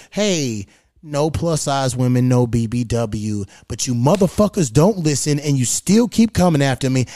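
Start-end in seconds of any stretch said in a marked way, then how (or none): 0.1-3.5 restrained, polite let-down; politely setting a boundary; trying to be nice. Retold or imitated. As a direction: lower and measured, easing into a slow finish. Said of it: "I try to be nice and say".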